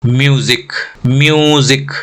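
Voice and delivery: म्यूजिक with a stretched 'myoo'; long vowel drill. Shown as a demonstration. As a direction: hold the यू in म्यूजिक for practice. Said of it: "Now long vowels का practice". (म्यूजिक में लंबा यू)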